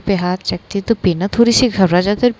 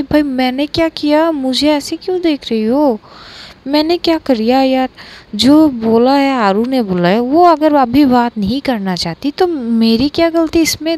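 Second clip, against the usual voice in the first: higher, flustered protest of innocence; nervous friend pleading with the angry girl, higher and flustered; nervous defensive pleading; 4 semitones higher than usual. Acted. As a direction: plead you did nothing, a bit rattled. Friend defends herself from glare.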